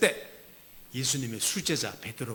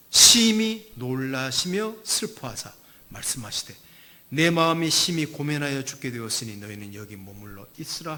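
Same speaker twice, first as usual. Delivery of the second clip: scripture reading; 2 semitones lower, 7 dB louder than usual. Acted. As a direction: proclaim the verse. (성경 봉독하듯 힘있게)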